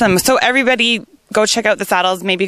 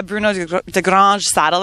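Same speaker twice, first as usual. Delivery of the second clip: French accent; 4 semitones lower than usual. Shown as a demonstration. Host shows off her French accent on the saddle brand. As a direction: give de Grange a proud French accent. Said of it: "That's pretty good French accent I think I have going on".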